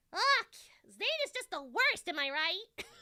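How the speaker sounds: put-on high drawn-out voice. Performing a requested line about Zane with glasses on: Kim voice. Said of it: "can you say Zane is the worst in your Kim voice?".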